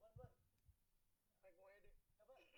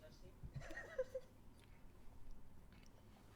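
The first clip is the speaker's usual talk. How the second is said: laughing hard and high; high breathy laugh. Real, not acted. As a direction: break into airy laughter. Bursts out after own joke.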